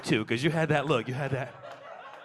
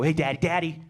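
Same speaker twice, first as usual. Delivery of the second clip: put-on whispered scolding kid; slower than usual. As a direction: hush him like a little rule keeper. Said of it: "the four-year-old go".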